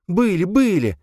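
high eager grieving mother. Acted.

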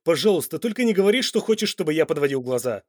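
loud pleading man. Acted. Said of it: "взмолился Данте".

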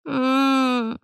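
сонный выше, тихий стон; простони, не просыпаясь. A narrator's reading. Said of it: "простонал Вирни". (разбуженный мальчишка стонет в ответ)

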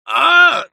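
sharp high cry of pain; loud pain scream. A narrator's reading. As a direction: scream as the shoulder is torn. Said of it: "закричал я от боли".

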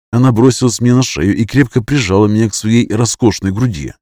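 ordinary delivery, nothing marked

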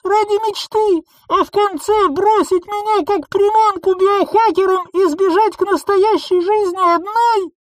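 high, loud, furious reproach; bitter accusation. A narrator's reading. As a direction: hurl every grievance at her. Betrayed clone accuses Nissa. (яростный упрёк из-под шлема)

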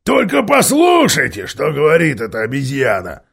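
loud mocking dwarf call over the crowd; loud jeering dwarf; shouted out. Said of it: "выкрикнул он".

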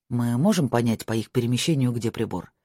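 a hint of a worried lover. Marko asks.

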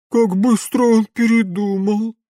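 sulky, cheated of fun; disappointed. Acted. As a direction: henchwoman pouting over spoiled fun. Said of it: "разочарованно произнесла Лола".

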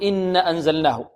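"إن أنزلناه" with the alif after the noon cut short; wrong reading of "إن أنزلناه" without the long alif; clipped long vowel. Shown as a demonstration. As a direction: shorten "إنا" to "inna", no held aa. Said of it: "لا نقول".

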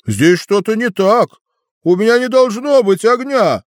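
высокий растерянный дракон; удивиться, как дракон; голос дракона. A narrator's reading. (растерянный дракон)

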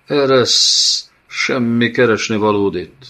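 bare your teeth and snarl it; the dead child snarls at the nomad to let go; snarling undead child. A narrator's reading.

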